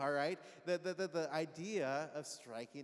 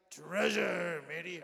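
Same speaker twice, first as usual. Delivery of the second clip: pirate voice; 8 dB louder than usual. Shown as a demonstration. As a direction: shout it like a pirate captain. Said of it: "say it like you're kind of like a pirate".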